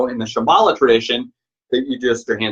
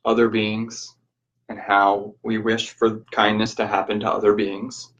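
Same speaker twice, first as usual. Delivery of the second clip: measured, even guiding voice with long pauses; guided meditation. Real, not acted. Teacher guiding listeners to reflect on change, guided meditation.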